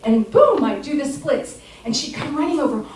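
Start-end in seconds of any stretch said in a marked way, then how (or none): 2.8-2.8 high, loud panicked mother shouting; hammed-up frantic mom yell; mock frantic mom. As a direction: shout like a panicked mom, much higher and louder, laughing through it. Mom runs over shouting.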